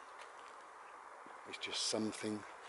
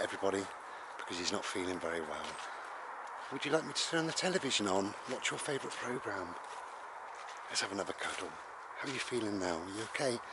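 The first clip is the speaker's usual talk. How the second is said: caring mum; 2 semitones lower, 4 dB quieter, faster than usual. Acted. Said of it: "and your mum said".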